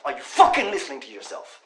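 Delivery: now he presses it, angry; angry repeat. Acted. Friend stunned by his words.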